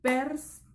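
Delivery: "perspectiva" in four pieces, pers... pec... ti... va; divided into syllables. Shown as a demonstration. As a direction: pause after every syllable of "perspectiva". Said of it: "se dividirá de esta manera".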